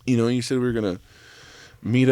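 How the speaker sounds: high puzzled voice; confused date. Acted. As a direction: call out, lost and puzzled. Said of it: "you'll be like".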